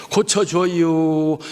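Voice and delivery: slow, drawn-out Chungcheong dialect plea. Shown as a demonstration. Preacher tries the plea in Chungcheong dialect, slow. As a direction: stretch 고쳐줘요 out in a lazy Chungcheong accent. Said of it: "제 충청도 말은 저 느낌이 안 와".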